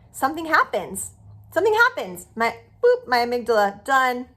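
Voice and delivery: high, loud, bursting; thrilled, it suddenly clicks; excited. Real, not acted. Excited description of relief.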